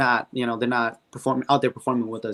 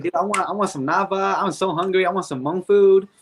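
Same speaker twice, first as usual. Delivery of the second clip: hungry whine; 5 semitones higher than usual. Retold or imitated. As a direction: whine it like a starving kid. Craving food at the event.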